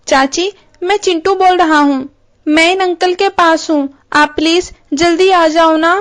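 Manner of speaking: put-on a small boy asking his aunt to hurry; little boy. Chintu on the phone asking his aunt to come quickly, child voice.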